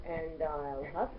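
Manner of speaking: slow, drawn-out big bad wolf; reading to a toddler. Shown as a demonstration. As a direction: stretch the wolf's threat slowly. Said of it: "what happens when Mommy says".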